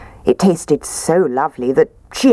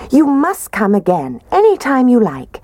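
Mummy Bear; 9 semitones higher, 3 dB louder than usual. Acted. Mummy Bear invites Goldilocks.

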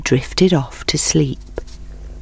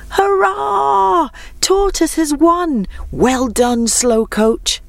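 much higher, jubilant cheer; 11 semitones higher, slower than usual. Acted. Animals cheer the tortoise's win, jubilant. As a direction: celebrate the winner with a whoop. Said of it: "the animals cheered".

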